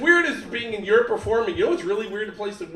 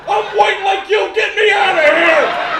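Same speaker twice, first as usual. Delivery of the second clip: high, loud pleading dog voice; desperate dog shout; 11 semitones higher, 12 dB louder, slower than usual. Acted. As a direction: shriek it like a caged dog begging.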